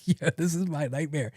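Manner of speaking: high, helpless giggly dismay; laughing dismay. Acted. Patient caught out by doctor, laughing dismay. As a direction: barely hold back the laugh.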